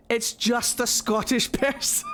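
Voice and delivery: laughing through the final word; breaking into laughter. Retold or imitated. Streamer retelling her absurd accent review, cracking up. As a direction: start the protest, crack up on the last word.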